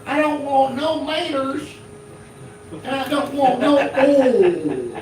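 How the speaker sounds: slow, high-pitched Southern redneck drawl; redneck Southern accent. Acted. Redneck customer ordering at a Subway drive-through, thick Southern accent. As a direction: stretch every word in a high redneck Southern twang. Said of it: "a redneck Southern accent".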